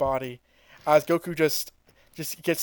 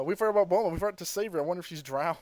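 quiet quoting; 3 semitones higher, 6 dB quieter, much faster than usual. Retold or imitated. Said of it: "they might as well be wondering".

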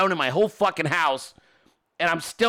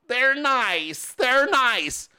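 higher, lightly voiced wife protest; imitating defensive wife; 4 semitones higher, much slower than usual. Wife defending her new bookshelves, higher mock protest. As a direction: insist in a mock wifely voice.

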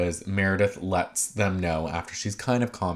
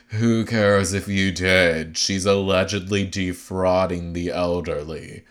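lightly put-on voice, slow start; drawn-out, lightly mimicked retort; imitated husband. Podcaster mimics husband dismissing the accusation, lightly acted slow retort. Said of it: "he's just like".

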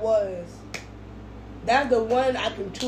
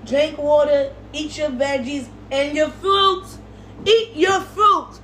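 scolding mother; 5 semitones higher, 3 dB louder than usual. Acted. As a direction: nag like a mom about fruit. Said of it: "anything you would like to say".

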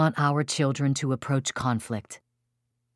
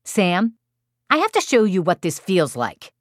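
calm, logical little voice, slightly raised; 4 semitones higher than usual. Retold or imitated. Four-year-old to younger brother, calm logical little voice. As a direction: say it evenly, matter-of-fact, as a child. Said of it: "speaking calmly to his younger brother".

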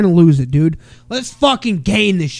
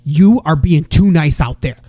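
a touch of a firm coaching voice; coach pep talk; 3 semitones higher than usual. Retold or imitated. Dad firmly coaching his daughter between periods, insistent. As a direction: pump her up, insistent. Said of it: "I went and talked to Coral".

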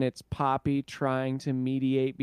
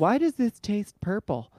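mad scientist; 6 semitones higher than usual. Acted. Same character continues.

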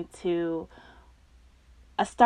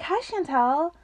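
higher-pitched, chummy hello; friendly greeting; 8 semitones higher than usual. Retold or imitated. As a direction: greet like a suddenly friendly teacher. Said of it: "she was so friendly to me".

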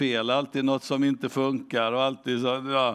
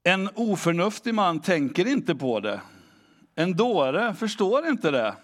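scripture reading; 3 semitones higher than usual. Acted. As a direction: read the verse with reverence. Reads Psalm 92 aloud.

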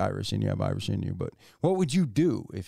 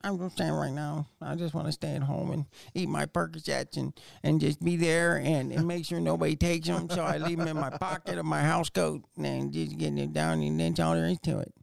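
put-on old man; 6 semitones higher than usual. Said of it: "I'm just an old man now".

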